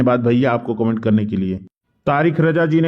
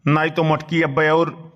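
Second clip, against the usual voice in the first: put-on grumbling old man. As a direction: mutter like a henpecked old villager. S1 plays Badke Bappa grumbling.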